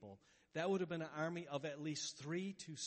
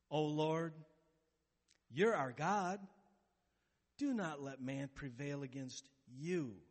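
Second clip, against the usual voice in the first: earnest prayer; 4 dB louder, slower than usual. Retold or imitated. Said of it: "Asa's prayer just says it so amazingly".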